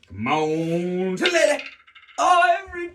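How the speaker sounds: high, loud plea; pleading with dice. Real, not acted. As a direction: beg the dice, then groan. Dice roll going badly.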